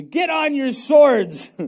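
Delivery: David's measured command to arm; slow commanding order. Acted. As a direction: lay each word down like an order. David orders his men to arm.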